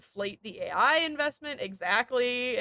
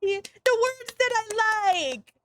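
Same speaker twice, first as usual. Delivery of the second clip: very high, squeaky gleeful voice; mock happy computer; 11 semitones higher than usual. Streamer mocks the resume scanner as a gleeful squeaky computer. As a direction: play a delighted childish machine. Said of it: "the computer goes".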